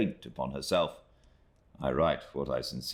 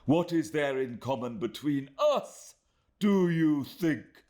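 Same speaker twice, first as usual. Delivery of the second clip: mild scornful taunt; 11 semitones higher than usual. Acted. Rosa taunts Emily.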